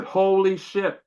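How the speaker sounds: high, astonished gasp of disbelief; stunned exclamation. Retold or imitated. Man coming out of a vision, stunned exclamation. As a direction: blurt it out in awe.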